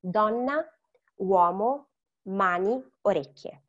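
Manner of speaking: careful Italian word list, each vowel sounded; every letter pronounced. Shown as a demonstration. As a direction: read DONNA, UOMO, MANI, ORECCHIE one by one, every vowel clear. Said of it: "we are pronouncing every single letter".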